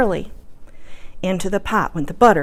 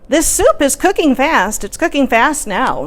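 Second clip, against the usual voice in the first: put-on old lady voice; 5 semitones higher, 3 dB louder than usual. Old lady's voice in story.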